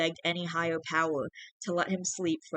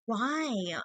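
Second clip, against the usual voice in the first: put-on hurt girlfriend; 5 semitones higher than usual. Hurt girlfriend asks why.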